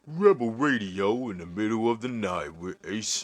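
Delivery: a hint of smooth night DJ; late night jazz radio. Host imitating Ace as a late night jazz DJ, lightly voiced. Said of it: "late night jazz radio voice".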